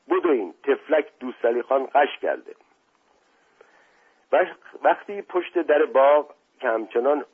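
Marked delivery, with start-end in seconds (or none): 0.1-2.6 higher, mildly raised alarm call; urgent shout. Acted. Servant calls guests to a fainted man, urgent mild shout. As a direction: call people over in a hurry. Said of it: "مشقاسم فریاد زد".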